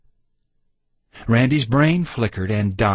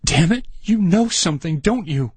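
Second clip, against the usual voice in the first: a higher, furious yell at his friend; demanding yell of accusation; 7 semitones higher than usual. A narrator's reading. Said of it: "Randy yelled".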